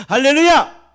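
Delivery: high, loud hallelujah out of laughter; exultant shout. Real, not acted. 웃다가 회중에게 외침. (크고 높게 외치는 할렐루야)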